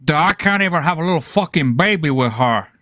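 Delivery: a lightly voiced, slowed Scarface gangster rant; Antonio Montana impression. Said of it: "Antonio Montana".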